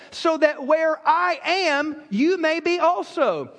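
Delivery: slow, lifted and drawn out; a hint of Jesus speaking gently; solemn Jesus quote. Pastor quoting Jesus to the church, slow and solemn. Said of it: "listen to what he says".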